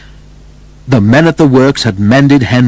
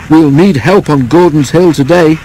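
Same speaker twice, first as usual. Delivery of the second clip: driver remarking; 5 semitones higher, 3 dB louder than usual. Acted. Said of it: "remarked his driver".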